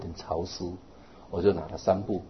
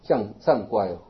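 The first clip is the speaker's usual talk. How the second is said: scripture recitation; 4 dB louder, slower than usual. Acted.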